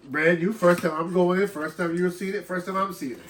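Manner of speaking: stuffy nose from a cold; blocked nose. Real, not acted. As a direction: talk through a stuffed-up nose. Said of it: "If I sound a little stuffed up".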